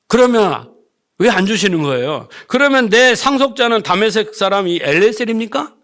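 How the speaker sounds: retold grumbling, pressing each question; argumentative complaint. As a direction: imitate a man demanding answers from God. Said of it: "이렇게 막 꼬치꼬치 따지면서".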